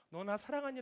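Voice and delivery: asking about love. Acted. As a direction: ask it without reproach, as one who loves. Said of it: "라고 물어봤던 건". (나무라지 않고 사랑을 묻는 말투)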